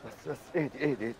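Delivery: whispered soothing shh; hushing whisper. Acted. Stranger whispers to calm the panicking girl. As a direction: hush her gently under the breath.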